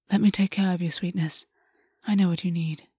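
gentle, softening reassurance; soothing. Acted. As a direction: reassure a hurt lover softly. August soothes Gwen tenderly.

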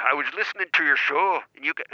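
Cockney attempt slipping toward Irish; attempted Cockney accent. Shown as a demonstration. The speaker trying again on request, failed Cockney accent. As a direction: try a Cockney accent and miss. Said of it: "try the Cockney accent again".

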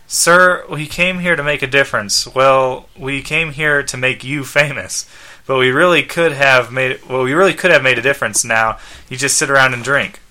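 lightly voiced earnest robot; mildly reproachful robot companion; Skeets. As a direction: plead with the boss as a loyal robot. Robot reproaches his owner.

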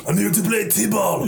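shouted mock Caribbean accent. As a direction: yell it in a hammy kid accent. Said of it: "Why'd you do an Asian accent".

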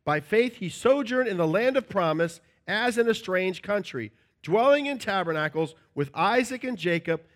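measured, solemn reading of scripture. Acted. Preacher reading Hebrews aloud to congregation, solemn.

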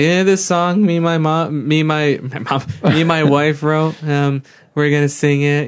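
lightly mocking impression of a man introducing a song; imitating his speech. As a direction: mimic his way of talking. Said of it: "he literally talks like this".

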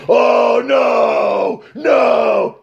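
sudden cries of no; panicked shouts. Retold or imitated. Wrestler crying out in pain in the arm bar. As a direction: yell no in alarm. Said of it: "the thing was".

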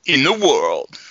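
slow, drawn-out presenter impression; pause, then drop away on the last word; Jeremy Clarkson. Co-host trying to do it better, slow presenter impression. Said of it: "can you do better?".

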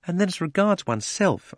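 happy dream. A narrator's reading. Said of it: "in a happy dream".

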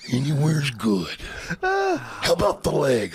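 slow, drawn-out wrestler voice; Macho Man. Retold or imitated. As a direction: suggest it slowly, like a scheming wrestler. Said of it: "That's a great Macho Man impression".

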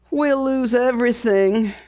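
lightly voiced toneless woman. A narrator's reading. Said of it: "she said tonelessly".

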